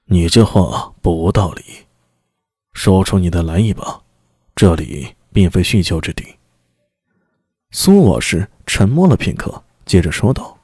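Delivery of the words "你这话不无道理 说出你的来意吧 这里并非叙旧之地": low, curt commanding lord; stern demon lord. Acted. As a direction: cut the small talk, low and firm. Demon lord answers envoy.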